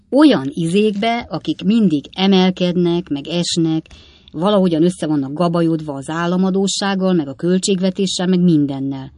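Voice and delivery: lightly voiced father, loud and insistent; a hint of a flustered old man; muddled old father. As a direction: describe it emphatically, groping for the term. Old Weller gropes for term.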